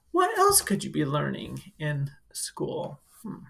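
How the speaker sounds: hushed, curious aside to the class; wondering whisper. Acted. Teacher asking kids what else they learn, whispered. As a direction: whisper it like a little secret.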